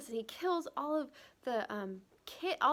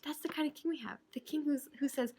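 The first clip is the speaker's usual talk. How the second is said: near tears; 4 semitones higher than usual. Real, not acted. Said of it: "oh my goodness, I'm gonna cry".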